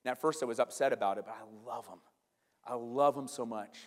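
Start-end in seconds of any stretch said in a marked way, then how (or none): 1.2-3.8 tender affection. Real, not acted. Tenderly speaking of younger siblings.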